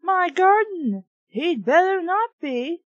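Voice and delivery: put-on bossy boy claiming his garden; loud possessive protest; indignant declaration. A narrator's reading. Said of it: "Moose declared".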